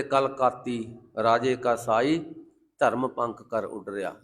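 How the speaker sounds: slow, low measured recitation; low, unhurried verse quotation; scripture recitation. Acted. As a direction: recite the sacred verse slowly and evenly. Quotes scripture.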